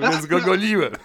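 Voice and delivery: laughing through the words; chuckling as he tells it. Real, not acted. Laughing while retelling the chase.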